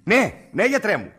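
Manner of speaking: loud, high, eager acknowledgement; eager phone greeting. Acted. Anxious caller greets the doctor on the line, loud and eager.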